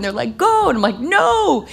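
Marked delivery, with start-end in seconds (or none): 0.4-0.7 high, loud shout of go; cheering yell. Retold or imitated. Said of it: "they're screaming". 1.0-1.7 playful refusal. Retold or imitated. Refusing cheering friends.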